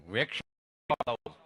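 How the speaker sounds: low voice stuck before the word; imitated stutter with humming blocks; stammering friend. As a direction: catch your tongue, then force it out low. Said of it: "જીભ જલાય, સોંટે અટકે".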